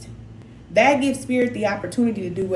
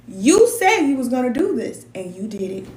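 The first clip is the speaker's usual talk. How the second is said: praise; 4 semitones higher than usual. Shown as a demonstration. Mother praising child, quoted.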